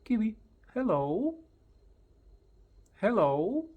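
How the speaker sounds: high, loud rising hellos; loud, lifted hello call; excited hello. Shown as a demonstration. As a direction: bounce it at the bird. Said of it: "I just come closer and I say".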